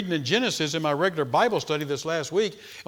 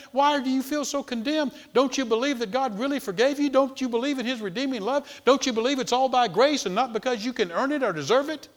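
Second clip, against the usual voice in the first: high, insistent string of questions; incredulous questioning; 8 semitones higher than usual. Acted. Asking a forgiven Christian why they feel condemned, incredulous. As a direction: press the doubter to believe.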